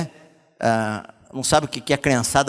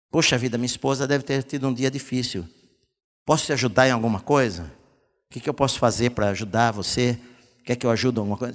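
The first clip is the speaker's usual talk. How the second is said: understanding husband; 5 semitones lower, 4 dB quieter than usual. Retold or imitated. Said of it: "dá o desconto, meu querido".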